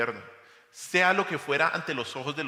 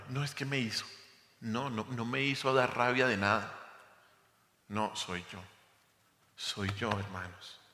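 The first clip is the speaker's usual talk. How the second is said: humble prayer. Acted. Prays for forgiveness aloud.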